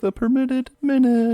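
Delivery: big, slow announcer voice. Acted. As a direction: boom out the segment title. Announcing segment title.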